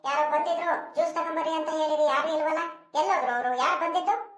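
calling loudly from another room. Acted. Daughter calls out to the house asking who came, loud.

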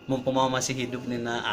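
soft, low heart-to-heart; gentle motherly talk. Shown as a demonstration. Mother passing advice to her grown son, gentle. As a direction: demonstrate a mother's quiet word to her child. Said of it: "Jadi ngobrol tuh sama anaknya".

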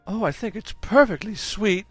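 gushing Mrs Brown. Acted. Mrs Brown to Mrs Jones about the doll, gushing. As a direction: coo over the doll.

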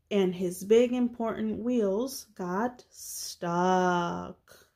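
lively, measured picture-book narration; reading to children. A narrator's reading. Reader telling children about a little truck, storybook narration. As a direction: read it aloud for little listeners.

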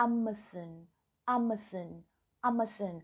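"Amazon" as AM-uh-sun, falling at the end; British pronunciation. Shown as a demonstration. Teacher drilling viewers in British English, "Amazon" as AM-uh-sun. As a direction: drill "Amazon" the British way, weak last vowel. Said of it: "เป็น British English นะคะ".

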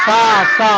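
সা sung out high and drawn; letter demo. Shown as a demonstration. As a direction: say সা, সা high and clear, like a cue. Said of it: "এটা কি বলো তো?".

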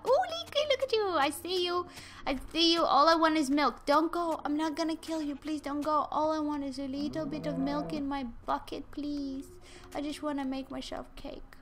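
high coaxing voice begging the cow. Real, not acted. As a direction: sweet-talk the cow for milk. Pleading with a cow.

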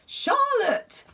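high loud angry yell. Acted. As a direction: yell her name in fury. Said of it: "yelled the king".

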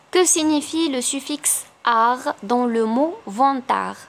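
slow, careful dictation of test sentences; slow classroom dictation; slow exam read. Acted. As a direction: read each option slowly for the class. Reads exam question.

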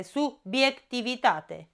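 subiectivitate said slowly in syllables; syllable split. Shown as a demonstration. Teacher to pupils, slow subiectivitate. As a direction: sound out subiectivitate. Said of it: "Se despart subiect".

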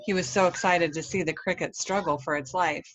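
put-on lively read-aloud for children; story narration. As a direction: tell a children's story with expression.

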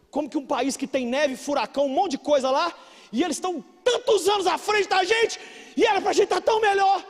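building to high, loud exasperation; indignant preaching. Real, not acted. Preacher comparing his country with America, indignant and rising. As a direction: protest to the crowd, climbing as you go.

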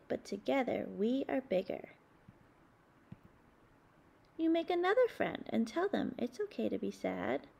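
put-on gentle read-aloud to children, measured and expressive; storybook reading. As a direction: read it like a bedtime picture book. Reading picture book aloud.

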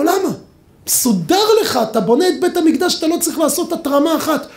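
high, wondering "why" from the people; puzzled question. Retold or imitated. People question King Solomon.

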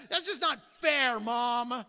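lightly acted kid's complaint to Mom; complaining child. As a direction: protest like an aggrieved child. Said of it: "from someone in your own family".

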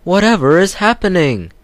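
high, loud flustered trucks; startled trucks. Acted. Trucks bumped by Edward, high startled cry.

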